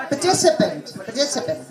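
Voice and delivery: "Participant" with a quick weak "puh" before stressed TI; reduced first vowel. Shown as a demonstration. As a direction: glide lightly over the first syllable of "Participant". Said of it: "you won't be able to reach it".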